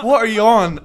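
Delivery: high, loud, with laughter breaking in; acted angry challenge. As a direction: hurl the challenge back, half amused. Repeats challenge in acted quarrel.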